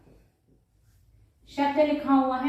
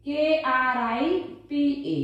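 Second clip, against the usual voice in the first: spelling out; much slower than usual. Shown as a demonstration. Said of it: "spelling क्या बनेगी".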